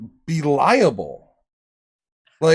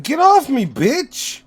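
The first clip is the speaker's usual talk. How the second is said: shouting; 9 semitones higher, 3 dB louder, slower than usual. Pretend. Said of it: "would have been like".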